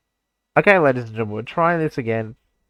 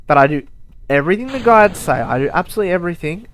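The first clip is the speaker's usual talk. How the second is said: frustrated rant; 3 semitones higher, 4 dB louder, faster than usual. Real, not acted. Ranting about the guides.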